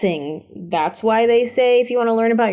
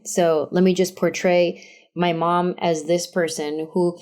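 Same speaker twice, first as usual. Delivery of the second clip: normal talking voice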